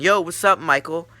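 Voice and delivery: loud, high shout from the background; called-out greeting. Retold or imitated. Friend in the background of a prank call, calling out. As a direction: holler it like a friend crashing the call.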